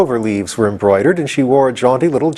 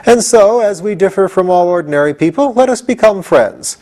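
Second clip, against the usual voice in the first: pleasant; 10 semitones higher than usual. A narrator's reading. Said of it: "said the king pleasantly".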